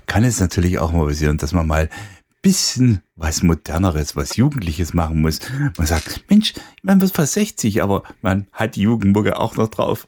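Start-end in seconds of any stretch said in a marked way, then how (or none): 6.3-10.1 high, bright exclamation of surprise; excited quote. Retold or imitated. People marvelling that a nearly sixty DJ knows youth music, high excited. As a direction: exclaim it like an amazed fan. DJ quoting people about his age.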